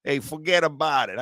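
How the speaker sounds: lightly mocked Italian-American catchphrase; a hint of Italian-American wiseguy; Italian-American accent. Host playing along, mild mock Italian-American accent. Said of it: "This fucking accent right here".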